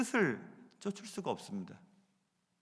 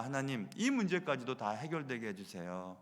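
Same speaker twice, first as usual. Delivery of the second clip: softer, lower pleading prayer; quiet imitated prayer to God; quoted prayer; 5 semitones lower, 7 dB quieter than usual. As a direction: pray it softly, a little lower. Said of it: "하나님 앞에 많이 기도합니다".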